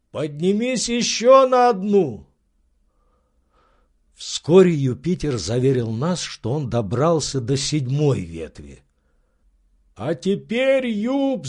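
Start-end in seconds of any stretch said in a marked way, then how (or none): 0.1-2.3 high, commanding master; Legrand's eager voice. Acted. Legrand urging his servant to climb higher, high. 9.9-11.5 high, agitated cry; beside himself with excitement. Acted. Legrand crying out to his servant, beside himself. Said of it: "закричал Легран вне себя от волнения".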